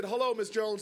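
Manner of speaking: low, grudging mumbled hello; grunted greeting. Retold or imitated. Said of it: "I just grunted".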